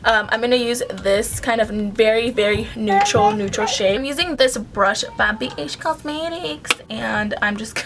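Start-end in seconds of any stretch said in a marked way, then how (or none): 3.9-6.7 slightly higher, oddly lilting product plug; odd sing-song delivery. Real, not acted. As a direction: say the brand name in a funny put-on way by accident. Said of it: "why did I say it like that?".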